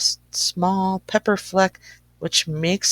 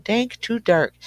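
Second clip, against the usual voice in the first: squeaky high little mouse cry; mouse screams; 5 semitones higher than usual. Acted. Mouse complaining in the cold cave, high squeak. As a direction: pitch it up like a tiny fretful mouse. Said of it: "The mouse screams".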